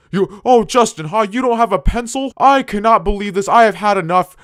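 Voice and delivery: high, loud mocking teacher voice; angry teacher. The narrator mocks the teacher scolding him in a high, loud voice. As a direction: pitch it way up and bark it like the furious teacher. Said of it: "And he's like".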